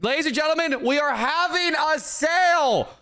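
announcer. Acted. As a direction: sell it like a shop announcer. Announces a sale to the store.

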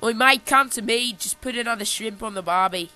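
hammed-up Aussie mate voice; playful, put-on Australian twang; Australian accent. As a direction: call out in a mock Australian accent. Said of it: "then Australia's like".

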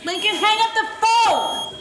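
firm order. Acted. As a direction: spell it out firmly. Mom ordering kid off phone.

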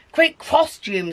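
high, slow gull shriek; lightly voiced squawky gull. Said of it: "shrieks a gull".

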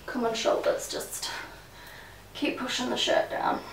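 soft, voiceless muttering; whispered self-talk. Real, not acted. Vlogger fixing a shirt between takes, whispering to themselves. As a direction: whisper under your breath to yourself.

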